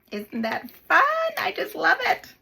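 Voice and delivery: high, gushing burst of delight; excited delight. Real, not acted. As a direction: gush with real delight, pitch leaping up. Gushing over the finished gold accent.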